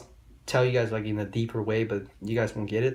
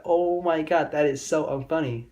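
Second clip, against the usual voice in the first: mock girl groan; 4 semitones higher than usual.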